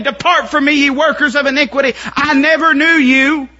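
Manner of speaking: high, loud stern verdict; booming divine rejection; Lord's judgment. Acted. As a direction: pronounce judgment from the throne. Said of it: "And he'll say".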